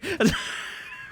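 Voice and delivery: high squealing laugh; real high-pitched laugh. Real, not acted. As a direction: burst out in a squeaky giggle. Laughing at own miss.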